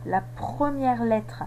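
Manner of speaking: première lent et appuyé; stress on première. Shown as a demonstration. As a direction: appuyer sur le mot première. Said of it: "de s'aider de la première lettre". (accent sur première, dit lentement)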